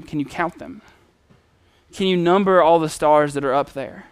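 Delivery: gently voiced promise, softened; hushed fatherly reassurance; soft, tender God. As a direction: invite him quietly to wonder at the stars. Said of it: "It's this soft, you know, tender moment".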